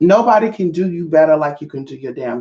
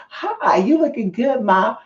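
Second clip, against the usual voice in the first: smooth pickup line; 6 semitones higher, slower than usual. Retold or imitated. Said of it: "tried to hit me up and was like".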